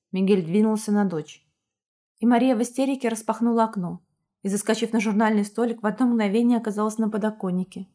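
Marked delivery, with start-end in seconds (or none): none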